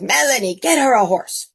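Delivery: calling out. Retold or imitated. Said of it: "he called out to Melanie".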